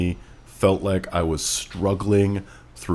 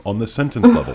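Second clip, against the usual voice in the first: laughing; 4 semitones higher, 5 dB louder than usual. Real, not acted. Laughing exasperation.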